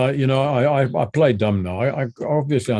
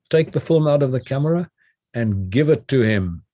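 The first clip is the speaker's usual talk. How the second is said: commanding. Retold or imitated. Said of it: "she was speaking with authority".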